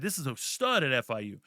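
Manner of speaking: mock the hype he never said; mock overhyped fan. Shown as a demonstration. Poking fun at fans, mock gushing hype. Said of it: "I never once talked like that".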